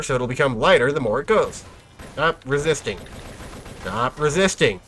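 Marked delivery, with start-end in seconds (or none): 2.1-3.0 police officer impression. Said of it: "my daily police officer impression". 3.8-4.8 slow stern cop command; police officer impression. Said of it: "my daily police officer impression".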